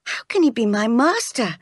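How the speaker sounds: mildly defiant protest, pitch rising high; indignant cry. Acted. Jane answering Miss Abbott, mildly indignant. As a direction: protest with a touch of outrage. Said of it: "I cried".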